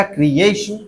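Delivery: क्रिएशन with a drawn-out middle "AY"; stress on A. Shown as a demonstration. Teacher asks where stress goes, says क्रिएशन stressing "AY". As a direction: say क्रिएशन as "kree-AY-shun". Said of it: "क्या लगेगा?".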